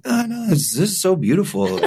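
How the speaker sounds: high, laughing cover-up; flustered laughing. Retold or imitated. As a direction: bluff it through laughter.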